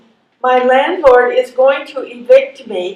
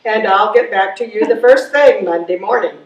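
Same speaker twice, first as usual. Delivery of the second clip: answering machine message; 4 semitones lower than usual. Acted. Recorded God's message to callers, mildly mechanical. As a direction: lower recorded announcement, rushing at the end.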